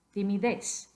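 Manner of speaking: Timidez stressed on the last syllable, "dez"; final-syllable stress. Shown as a demonstration. Teacher tests rule two, Timidez stressed on last syllable. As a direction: lean on "dez" at the end of Timidez. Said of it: "más fuerte en la última sílaba".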